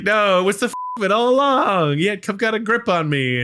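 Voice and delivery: high, loud, hammed-up denial; exaggerated excuse, pitched high; mock protest. Acts out man's protesting denial.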